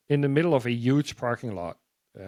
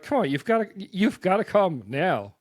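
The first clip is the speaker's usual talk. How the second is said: higher insistent urging, slowing down on the last words; pushy; 5 semitones higher than usual. Retold or imitated. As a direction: press him to come right now. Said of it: "he was pretty pushy".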